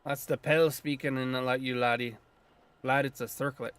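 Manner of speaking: put-on light Scottish lilt for the old druid; a hint of Scottish brogue, gruff and proud; lightly voiced Scottish druid; Scottish accent. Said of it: "I'm giving him a Scottish accent".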